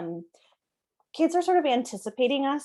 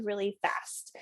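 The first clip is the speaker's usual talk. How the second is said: whisper; 6 dB quieter, slower than usual. Real, not acted. Voice drops mid-sentence.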